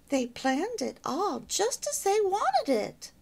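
a touch of motherly pride, slow; mild pride, unhurried; proudly. Acted. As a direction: gently boast about the young couple. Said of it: "explained Bettina's mother proudly".

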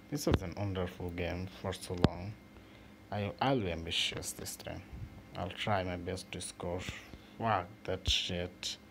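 normal talking voice

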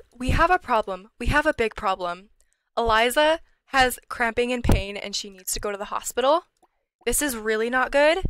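loud urgent alarm. Real, not acted. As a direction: sound the alarm loudly. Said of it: "And I'm freaking out".

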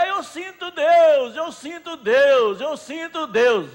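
proclama alto e devagar, com fervor; exclamação fervorosa. Acted. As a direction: grita a fé, lento e forte. Pregador declama fé com força. (proclamação fervorosa, alta e lenta)

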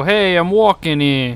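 slow New York "Hey, I'm walking here" with "walking" leaned on; New York street-guy drawl on "walking"; New York accent. Retold or imitated. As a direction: classic New York cabbie bark. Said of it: "they don't go".

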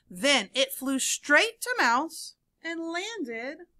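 animated story reading with swooping emphasis and hushed letdowns; read-aloud storytelling. A narrator's reading. Teacher reads seesaw story to children, animated storytelling. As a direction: read it to young listeners with suspenseful pauses.

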